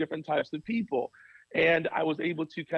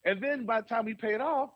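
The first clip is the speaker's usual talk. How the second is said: frustrated; 6 semitones higher than usual. Retold or imitated. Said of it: "And I got so frustrated".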